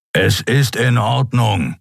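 grudging growled reassurance; rumbling reassurance. Acted. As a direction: insist it's fine with a growl. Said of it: "versicherte er grollend".

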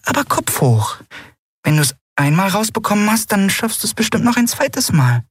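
high little cheering-up voice; encouraging. A narrator's reading. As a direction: console a downcast friend. Tiny friend consoles the heroine. (aufmunternd, mit hohem Stimmchen)

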